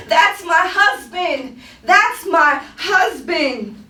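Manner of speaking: slow, stretched plea; drawn-out pleading in a spoken-word poem; woman's plea. Acted. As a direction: plead it, dragging out each word. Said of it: "his woman's plea".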